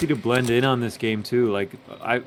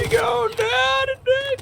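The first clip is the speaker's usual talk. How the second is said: even higher gleeful screech; hype battle yell. Real, not acted. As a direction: top it with a higher shriek. Finishing off the gator.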